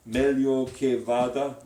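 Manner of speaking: meglio che vada a bit slow; slow diction. Shown as a demonstration. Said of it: "That's her next line".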